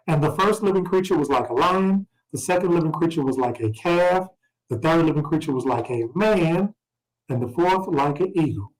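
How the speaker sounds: measured scripture reading voice. Acted. Teacher reading Revelation aloud, measured scripture voice. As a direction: read the verses out to the class.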